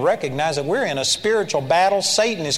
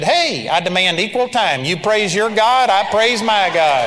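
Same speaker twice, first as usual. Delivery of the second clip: mock demand, raised voice and higher pitch; joking demand; 3 semitones higher, 5 dB louder than usual. Player answering the guys on the court, joking loud demand. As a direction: push it louder toward the end, without anger. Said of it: "I was kind of joking around with them".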